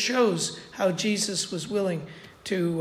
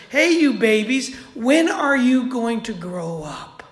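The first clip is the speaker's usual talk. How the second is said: mild rebuke; 2 semitones higher, 4 dB louder than usual. Acted. Jesus rebuking disciples.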